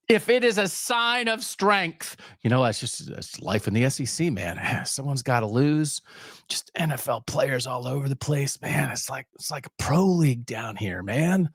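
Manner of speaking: put-on a drawled, laid-back California surfer accent, heavy on the "man". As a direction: sound like a chilled-out Californian surfer shrugging it off. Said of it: "I'm doing a California surfer accent".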